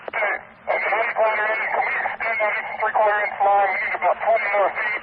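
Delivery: urgent request over the radio; urgent firefighter radio. Real, not acted. Firefighter radios for more line.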